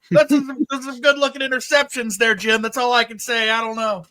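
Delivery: high, loud hammed-up commentator voice; mock a TV color commentator, shouting high; Chris Collinsworth impression. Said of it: "Stupid Chris Collinsworth. I can't do his accent".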